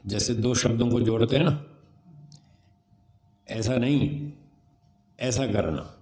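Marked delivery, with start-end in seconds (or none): 3.5-4.3 ऐसा नहीं joined as one unit, then a pause; phrase grouping with pause. Shown as a demonstration. Teacher shows where to join words, ऐसा नहीं grouped. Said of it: "ऐसा नहीं के बाद थोड़ा रुक गया". 5.2-5.9 ऐसा करना as its own unit, falling at the end; separate phrase grouping. Shown as a demonstration. Teacher shows where to join words, ऐसा करना grouped. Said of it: "ऐसा करना ये इसके साथ है".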